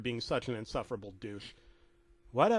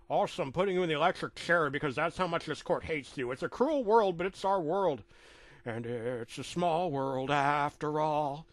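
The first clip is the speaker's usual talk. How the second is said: a hint of a pompous judge sentencing; lightly voiced judge. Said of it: "he said as he threw his hammer down".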